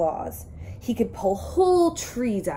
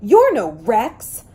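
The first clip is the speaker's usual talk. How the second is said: loud, slow dinosaur roar; a giant dismissing a pest, slow and loud; 8 dB louder, slower than usual. A narrator's reading. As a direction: drag out each word with a big booming roar. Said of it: "roared the big dinosaur".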